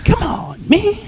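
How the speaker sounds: mock whispered lament; whispered echo. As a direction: whisper it back in mock despair. Echoing with a whisper.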